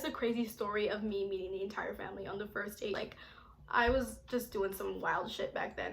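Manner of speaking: soft conspiratorial sign-off; hushed confession of her wild past; whispered wrap-up. Real, not acted. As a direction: whisper the ending. Wrapping up the story in whisper.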